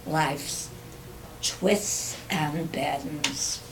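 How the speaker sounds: measured poetry reading with long pauses; poem recitation. Acted. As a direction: recite your own verse, pausing after each phrase. Reads own poem aloud.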